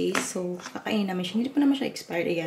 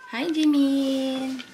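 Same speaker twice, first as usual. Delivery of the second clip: calling out; 5 semitones higher, 6 dB louder, much slower than usual. Real, not acted. Calling out to son in room.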